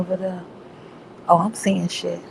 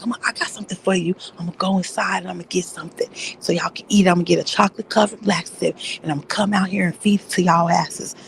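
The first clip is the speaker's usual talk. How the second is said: put-on scolding kids voice; faster than usual. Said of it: "talking to them like they were my kids".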